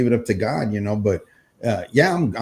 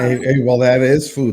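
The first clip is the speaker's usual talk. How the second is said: corrupted glitchy audio. Real, not acted. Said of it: "Your audio is cutting out".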